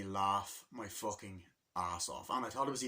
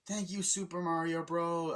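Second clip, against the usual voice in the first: cheery ad voice; 7 semitones higher, 3 dB louder than usual. Retold or imitated. Commercial line, retold.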